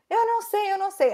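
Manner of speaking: high, helpless retold plea; nearly crying. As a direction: imitate yourself on the verge of tears. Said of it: "assim, eu quase chorando".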